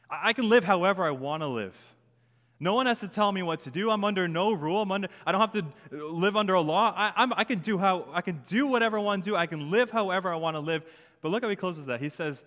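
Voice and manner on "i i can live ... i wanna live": defiant assertion. Acted. Voicing Paul asserting his total freedom.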